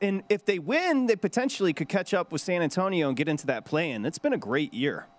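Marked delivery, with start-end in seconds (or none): 4.0-5.0 dry, sarcastic delivery. Teasing the other speaker about his team's season: sarcastic. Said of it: "That was sarcastic, I will admit".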